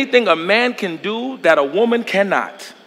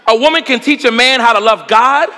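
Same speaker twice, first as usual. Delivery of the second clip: ordinary talk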